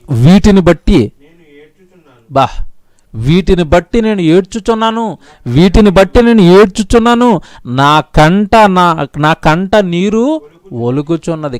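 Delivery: emphatic, drawn-out verse reading; scripture reading. Acted. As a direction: read the verse out with weight. Reads out the verse.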